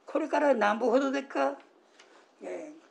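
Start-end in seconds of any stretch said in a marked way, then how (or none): 0.1-1.6 higher, brisk question in Osaka dialect; demonstrated Osaka-dialect question. Shown as a demonstration. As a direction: ask briskly with an Osaka lilt. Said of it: "大阪弁のお話".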